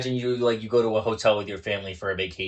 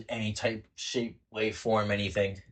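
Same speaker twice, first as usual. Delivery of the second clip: slurring a bit, tipsy. Real, not acted. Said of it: "Too drunk for the podcast".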